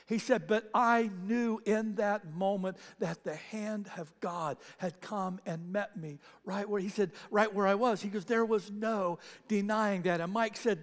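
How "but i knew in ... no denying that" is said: slow, weighty testimony; an engineer slowly admitting a miracle; solemn conviction. Retold or imitated. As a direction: lay each word down slowly and firmly. Solemn realisation of God.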